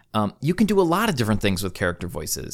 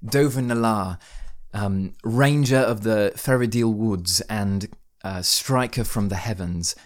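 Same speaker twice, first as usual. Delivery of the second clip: pompous British accent. Shown as a demonstration. Player introducing his old ranger Dovin in pompous British accent. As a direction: announce yourself like a self-important British ranger. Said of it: "pompous Britishy accent that may be a little over the top".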